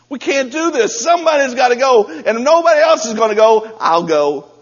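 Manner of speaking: loud, high, fervent cry; rally the troops at full volume; David declaring he'll go, shouting; preaching shout. Acted. David's challenge, preached at full force.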